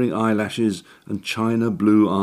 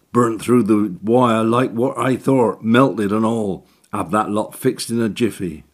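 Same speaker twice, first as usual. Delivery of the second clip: cockney handyman; 3 semitones higher, 3 dB louder than usual. Acted. Orton confident.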